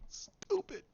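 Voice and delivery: breathy whispered under the breath; whispered aside. Real, not acted. Vlogger whispering a jab at the show. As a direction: drop to a whisper for a private jab. Muttered aside after a laugh.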